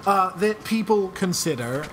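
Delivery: put-on Scottish accent. Shown as a demonstration. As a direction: have a go at sounding Scottish. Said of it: "that was Scottish".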